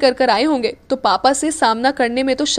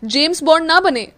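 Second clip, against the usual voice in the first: glaring; 2 semitones higher, 5 dB louder than usual. Acted. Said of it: "अक्षत ने मीरा को लगभग घूरते हुए कहा".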